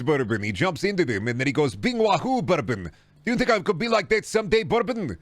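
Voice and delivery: put-on high voice, full of wonder; excitable broken-English game character. In character, dreaming of being Mario.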